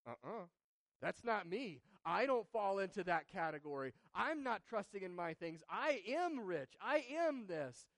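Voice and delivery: self-assured boast, slowing and rising on the last words; smug denial. Retold or imitated. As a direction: mimic a proud churchgoer brushing off the rebuke. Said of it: "who hear this and say".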